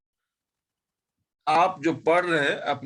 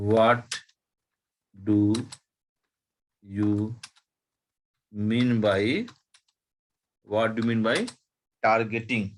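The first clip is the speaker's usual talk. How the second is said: what do you mean by, one word at a time with pauses; word by word dictation; slower than usual. Shown as a demonstration. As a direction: dictate slowly so they can write. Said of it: "तो मैं slow slow ही बोल रहा हूँ". (एक एक शब्द रुककर लिखवाना)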